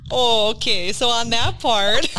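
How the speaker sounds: slow, round-voweled Wisconsin accent. Real, not acted. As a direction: let the Wisconsin accent slip out. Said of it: "my Wisconsin accent's gonna come out now".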